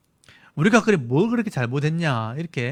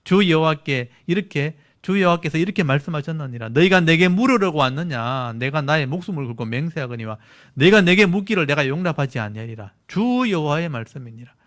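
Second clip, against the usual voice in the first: angry reading. Acted. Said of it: "이 말투가 조금 화가 난 말투로 읽어야".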